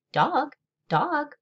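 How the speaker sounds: quiet croak. A narrator's reading. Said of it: "croaking real quiet to herself".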